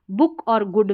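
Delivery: बुक and गुड with a short oo; short oo sound. Shown as a demonstration. English teacher contrasting double-o sounds, short oo. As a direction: keep the vowel brief in बुक and गुड. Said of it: "छोटे ऊ की जैसे".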